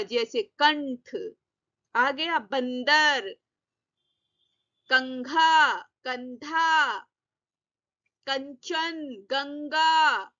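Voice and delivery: slow, drawn-out teacher demo words; slow careful example words. Shown as a demonstration. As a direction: stretch each word so the nasal is heard. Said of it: "जो हमारे बिंदु के रूप में आ जाते हैं". (अनुनासिक शब्द धीरे-धीरे खींचकर)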